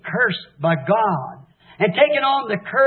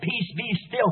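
calm command; 8 dB quieter than usual. Retold or imitated. Jesus calming the storm.

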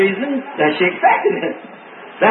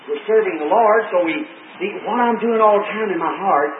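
soothing husband; 4 semitones lower, 3 dB quieter than usual. Retold or imitated. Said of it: "so I said".

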